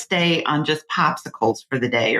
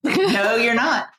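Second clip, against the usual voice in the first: higher, emphatic no; insistent, pitched up; retold firm refusal; 8 semitones higher, slower than usual. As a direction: shut the resident down, drawing out the no. Retells refusing the resident's tube.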